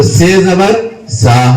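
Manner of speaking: slow "سے زبر سا", tongue tip near upper teeth; se letter demo. Shown as a demonstration. Teacher listing three similar letters, slow "سے زبر سا". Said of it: "اس میں دونوں فاصلہ رکھنے سے".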